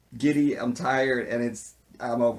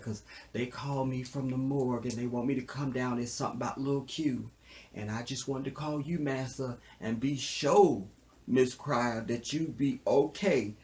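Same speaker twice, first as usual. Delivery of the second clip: servile slave; 2 semitones higher than usual. Acted. Slave calling Massa for permission, hammed-up servile pleading. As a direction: plead meekly, stretching the key words.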